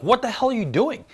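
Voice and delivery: high-pitched mock reproach; calling her out. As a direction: imitate an incredulous husband scolding. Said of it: "Vision calls her out on it".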